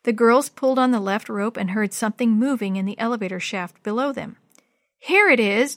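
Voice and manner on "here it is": announcing. Acted. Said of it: "Jenny announced".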